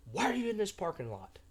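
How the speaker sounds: hotel lady demanding, hint of Russian; Russian accent. Hotel lady scolding a parked guest, lightly voiced Russian accent. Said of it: "she has got a Russian accent".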